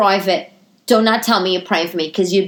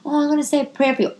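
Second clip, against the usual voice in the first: saccharine mock sympathy, softer then higher; mock pious; 5 semitones higher, 3 dB quieter, faster than usual. Coworker offering prayers, in mocking sweet tone. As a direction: sneer it as fake piety. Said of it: "You know how people say that?".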